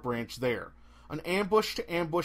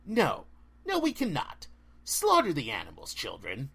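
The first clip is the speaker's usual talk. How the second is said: cold, ancient forest spirit; haughty dryad. Acted. Dryad commands attack.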